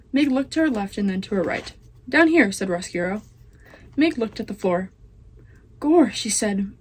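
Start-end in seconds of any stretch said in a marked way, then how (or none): 2.1-2.5 rat voice calling up. Acted. Roscuro calls up to Meg. 5.8-6.1 loud exclamation. Acted. Meg exclaims loudly.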